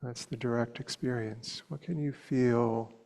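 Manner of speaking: unhurried meditation guidance with long pauses; guided meditation. Real, not acted. Teacher inviting students to soften the body, unhurried meditation voice. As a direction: lead them gently, leaving long silences between short phrases.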